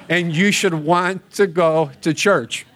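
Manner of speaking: slow, amused delivery breaking into a laugh; laughing through the punchline. Retold or imitated. Preacher retelling the wife's last reason, laughing. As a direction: chuckle as you land the joke.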